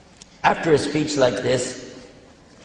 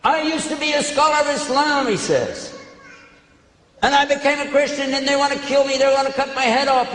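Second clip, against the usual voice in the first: retold shouting; 9 semitones higher than usual. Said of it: "shouting at the people".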